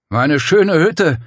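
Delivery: stunned lament over the hut; slow stricken stammer. Acted. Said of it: "stammelte er".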